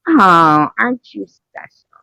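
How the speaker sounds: mock-sweet sarcastic put-down; sarcastic waitress. Waitress teasing the diner about her date, sarcastic. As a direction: tease her like a pitying waitress.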